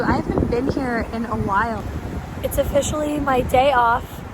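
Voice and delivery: raspy voice from laryngitis; hoarse voice. Real, not acted. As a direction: speak through a sore, raspy throat. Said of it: "my voice sounds terrible".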